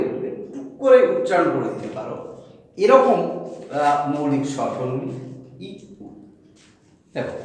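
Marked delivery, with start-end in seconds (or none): 5.7-6.1 ই and উ said very slowly and softly; একদম ধীরে ই, উ; slow vowel demo. Shown as a demonstration. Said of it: "আমি মানে একদম slow". (ধীরে ধীরে ই আর উ উচ্চারণ)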